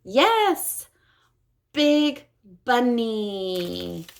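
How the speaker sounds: cheer, then model slowly; excited praise. Shown as a demonstration. Therapist cheering a child's success.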